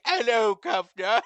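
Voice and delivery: light mock British accent; playful fake posh British greeting. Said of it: "Catherine has a British accent".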